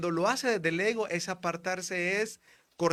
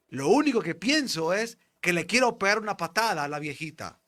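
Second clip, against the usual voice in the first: louder, raised retelling of a shameful thought; anxious confession; 2 semitones higher, 6 dB louder than usual. Retold or imitated. Frightened friend tells what he thought on the bus. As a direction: confess it urgently, a little panicked. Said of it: "amigo de él asustado".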